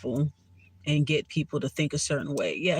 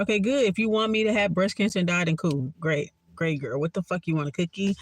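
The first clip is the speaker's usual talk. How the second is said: sarcastic; 3 semitones higher than usual. Real, not acted. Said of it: "being a sarcastic".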